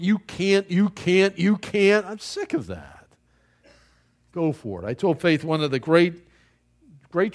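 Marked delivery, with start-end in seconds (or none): 0.0-2.0 mock naysayer. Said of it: "how many people have told you".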